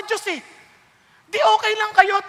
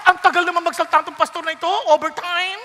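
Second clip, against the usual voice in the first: rapid, impatient complaining churchgoer; quick mock complaint about a long sermon; mock grumbling; faster than usual. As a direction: rattle off the gripe fast like a bored listener. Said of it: "Minsan nagre-reklamo pa".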